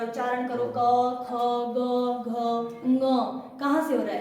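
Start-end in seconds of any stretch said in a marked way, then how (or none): 0.8-3.0 क, ख, ग, घ, ङ sounded one by one, each held open; pronunciation demo. Shown as a demonstration. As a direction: model each throat letter क, ख, ग, घ, ङ separately for pupils. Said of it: "देखो क को प्रोनाउंस करो जरा".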